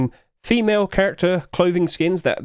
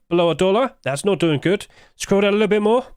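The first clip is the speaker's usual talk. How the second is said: slightly winded, talking fast; out of breath; 5 semitones higher than usual. Real, not acted. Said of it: "Oh, I'm running out of breath".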